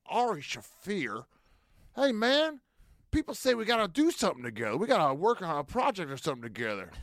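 put-on Ron White drunk. Comic retelling a drunk host bringing him onstage, high swooping drunk impression. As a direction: slur and swoop it like a blackout drunk. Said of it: "he used to get so drunk".

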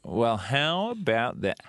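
Southern drawl. Shown as a demonstration. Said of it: "The difference between this and this".

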